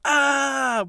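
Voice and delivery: a hammed-up night-terror yell; mock night-terror scream. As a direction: belt out a dream scream. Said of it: "you're screaming like".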